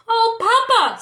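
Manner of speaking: high, loud delighted cry; joyful cry. A narrator's reading. Serafina crying out happily to her father. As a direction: burst out with joy. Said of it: "Serafina cried".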